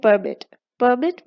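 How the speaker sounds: "permit" stressed on MIT; stress on last syllable. Shown as a demonstration. Teacher letting students feel the stress, "permit" stressed on MIT. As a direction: lean on the second syllable, per-MIT, in "permit". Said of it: "the last syllable is stressed".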